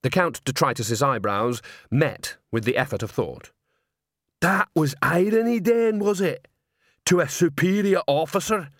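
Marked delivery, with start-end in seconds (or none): 4.4-8.7 loud, offended troll; indignant troll voice. A narrator's reading. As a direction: bristle at the insult.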